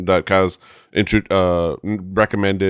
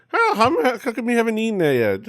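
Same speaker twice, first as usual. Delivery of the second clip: imitating pushy host. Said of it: "it's like".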